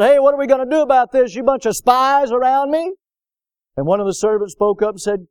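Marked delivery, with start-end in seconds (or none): 0.0-2.9 higher-pitched, mildly indignant acted demand; upset king. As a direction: confront the servants as a rattled king. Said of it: "the king got all upset".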